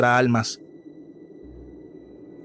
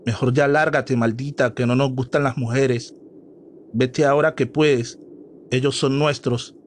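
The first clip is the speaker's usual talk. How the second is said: ordinary delivery, nothing marked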